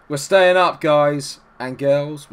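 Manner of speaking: loud, high cheer of relief; excited. Real, not acted. Celebrating survival to viewers with a loud cheer. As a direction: shout it out in triumph. Team avoids relegation.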